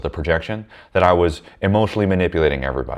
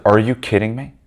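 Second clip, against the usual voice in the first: higher-pitched disbelief, rising at the end; incredulous; 4 semitones higher than usual. Retold or imitated. Repeating his comeback to her, incredulous. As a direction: press the incredulous question, retold.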